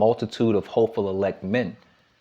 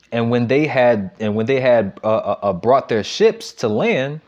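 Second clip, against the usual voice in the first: slow, deliberate reading of a Bible verse; scripture reading; 3 dB louder than usual. Acted. Preacher reads the verse to the congregation, slow and deliberate. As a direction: lift the verse out slowly for the congregation.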